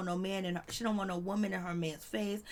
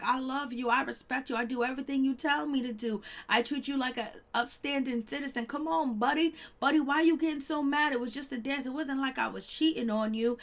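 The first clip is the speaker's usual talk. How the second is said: higher, coaxing husband voice; husband begging his wife not to be mad; pleading husband; 5 semitones higher than usual. Retold or imitated. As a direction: sweet-talk her so she calms down.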